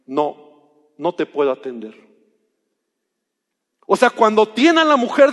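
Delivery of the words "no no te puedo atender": firm refusal. Retold or imitated. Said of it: "lo que Jesús le dice".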